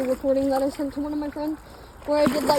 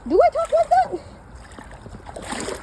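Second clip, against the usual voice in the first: much higher, very slow hammed-up question; exaggerated mock voice; much slower than usual. Vlogger teasing her own way of talking, slow high hammed-up voice. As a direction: stretch it out in a silly high voice. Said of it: "why I'm talking like that".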